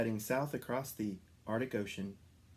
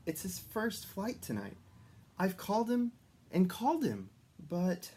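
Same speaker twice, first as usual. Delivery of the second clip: high, fretting elf voice; 9 semitones higher than usual. A narrator's reading. Elf worried about the youngest reindeer, high and fretting. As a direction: fret about the lost reindeer. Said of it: "the elf".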